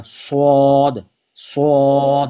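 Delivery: سواد said with a full, heavy س; bold swad. Shown as a demonstration. Teacher demonstrating the heavy سواد. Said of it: "آواز کو bold کرنا ہے".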